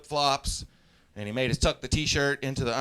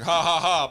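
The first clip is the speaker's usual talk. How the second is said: mock laugh; 3 semitones higher, 5 dB louder than usual. Mimics superiors' laughter.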